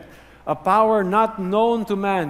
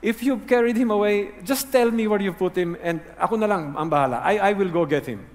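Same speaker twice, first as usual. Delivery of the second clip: exasperated; 3 semitones higher than usual. Retold or imitated. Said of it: "you know, exasperated".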